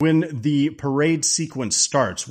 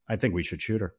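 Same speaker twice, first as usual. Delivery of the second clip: low, softer deadpan; matter-of-fact; 4 semitones lower, 5 dB quieter, faster than usual. Retold or imitated. Dad answering mom about Jeannie, matter-of-fact. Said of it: "just so matter of factly".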